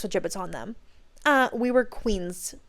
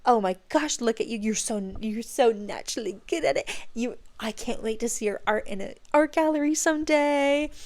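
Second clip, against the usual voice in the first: put-on gushing praise for a child; laying it on. Teacher praising little girl's drawings, laying it on. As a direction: pile on the encouragement, stressing each compliment. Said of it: "I laid it on".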